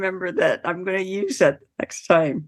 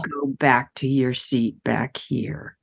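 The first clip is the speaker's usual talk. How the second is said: imitating a mildly patronising helper; talking down to a child. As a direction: speak as if helping a four-year-old. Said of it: "It sounded like she thought I was four".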